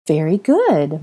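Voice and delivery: praising. Acted. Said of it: "Molly praised".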